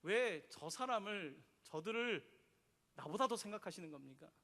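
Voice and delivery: resentful complaint. Retold or imitated. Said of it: "그때 요나는 또 화가 나는 거예요".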